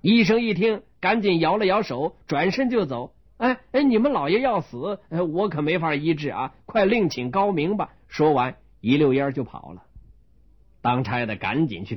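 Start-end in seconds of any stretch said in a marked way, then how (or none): 3.4-7.9 higher, hasty backing away; higher flustered doctor; hurried alarmed doctor. Acted. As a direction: wave them off and run. Doctor flees, refusing treatment.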